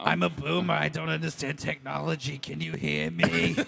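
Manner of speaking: lightly voiced boomer mom. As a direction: play a confused older mom. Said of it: "How come she sounds like my mom now?".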